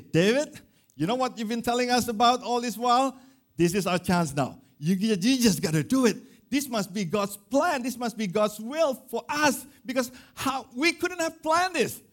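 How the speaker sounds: high, pressing voice of eager followers; eager urging. Retold or imitated. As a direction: egg him on, excited and urgent. Men urging David to kill Saul.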